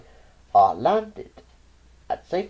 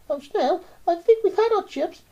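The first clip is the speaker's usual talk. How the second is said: murmured; 4 dB louder than usual. A narrator's reading. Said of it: "I murmured through my quivering lips".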